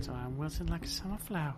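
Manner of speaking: a Southern lady wilting in the heat; Southern belle accent. Pretend. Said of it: "She should have had a Southern accent".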